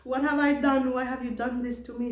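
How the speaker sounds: high, loud anguished cries; a wounded boy screaming in panic; retold screaming. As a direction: cry out in shock and pain. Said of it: "he started screaming".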